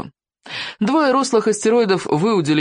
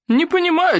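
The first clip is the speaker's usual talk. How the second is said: feigned bafflement; 13 semitones higher than usual. A narrator's reading. Chieftain feigns ignorance of potato.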